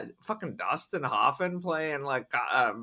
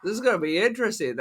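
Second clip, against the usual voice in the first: sarcastic; 5 semitones higher than usual. Retold or imitated. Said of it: "I was like".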